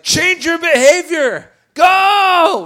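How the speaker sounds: high, loud barked order; mock command. Evangelist ordering church members to go, loud mock command. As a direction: push them out the door.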